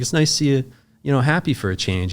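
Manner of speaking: mildly upbeat quote; retold pleased remark. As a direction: sound lightly glad for someone. Retelling relief that he was happy.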